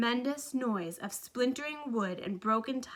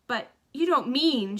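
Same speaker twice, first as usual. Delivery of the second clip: shouted; 2 semitones higher, 7 dB louder than usual. A narrator's reading. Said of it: "shouted Grandpa Joe".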